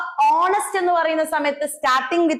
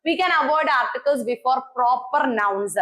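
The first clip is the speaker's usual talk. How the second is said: slow dictation; much slower than usual. Shown as a demonstration. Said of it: "dictating rule".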